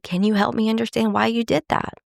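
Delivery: sincere, curious question; genuine. Shown as a demonstration. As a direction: ask it because you truly want to understand. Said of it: "It's genuine".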